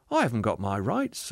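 light, easy admission; reassuring spirit. Acted. Spirit admitting it to the ghost, untroubled. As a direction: admit it freely and gently. Spirit's take of the same words.

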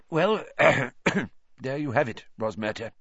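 thick voice. A narrator's reading. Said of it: "said Fudge thickly".

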